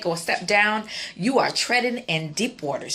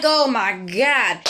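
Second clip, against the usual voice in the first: alarmed; 4 dB louder, much slower than usual. Retold or imitated. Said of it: "I'm like".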